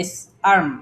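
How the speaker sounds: "আর্ম" said as one word with the R silent; pronunciation demo. Shown as a demonstration. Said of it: "শুরুতে এ আছে".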